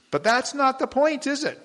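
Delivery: high, loud rhetorical punch; emphatic preaching. Real, not acted. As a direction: hit the point hard from the pulpit.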